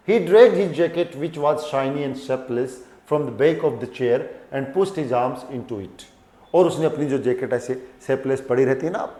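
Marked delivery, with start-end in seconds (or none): 0.1-6.0 slow story reading. A narrator's reading. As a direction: read each English word slowly and clearly. Reads the narration to class. (धीमी कहानी पढ़ाई)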